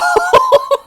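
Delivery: loud squealing cackle; helpless shrieking laughter; high shrieking laugh. Real, not acted. Laughing hard at the fan fiction.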